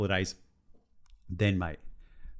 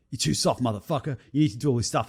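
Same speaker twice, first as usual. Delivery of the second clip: David Goggins; 4 semitones higher than usual. Retold or imitated. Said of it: "David Goggins in my head going".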